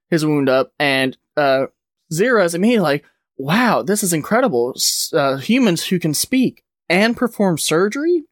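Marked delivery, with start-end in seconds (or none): 3.4-8.2 mildly amazed, pitch climbing to a questioning end; retold amazement. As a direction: act out wonder, lifting higher at the end. Retold character marvels at humans.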